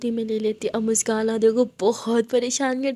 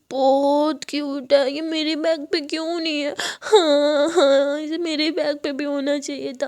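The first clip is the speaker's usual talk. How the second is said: put-on childish crying; 3 semitones higher than usual. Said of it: "बच्चों की तरह रोने लगती है".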